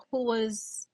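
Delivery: whispered teaser; hushed build-up before a reveal; suspense whisper. Acted. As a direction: lean in and whisper it like a secret. Teasing the big news reveal.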